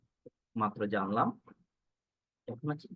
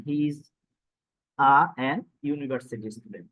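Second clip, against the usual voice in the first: slow example read; 2 semitones higher, 4 dB louder, much slower than usual. Shown as a demonstration. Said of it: "teacher weighs a against an".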